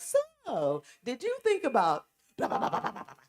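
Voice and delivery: teasing imitation. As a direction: imitate a nosy probing question. Imitates Cindy putting her on blast.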